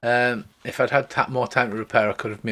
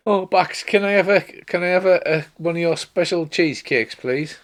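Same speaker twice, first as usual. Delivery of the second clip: higher pleading voice, a touch sad; mildly mournful high plea; sad bard; 5 semitones higher than usual. Acted. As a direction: beg sweetly for a cheesecake. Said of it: "he looks quite sad and he says".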